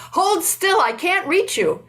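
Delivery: retold yell. Angulimala yelling at the Buddha, a storyteller's mock shout. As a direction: shout it at the walking monk, frustrated. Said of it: "he finally yells at the Buddha".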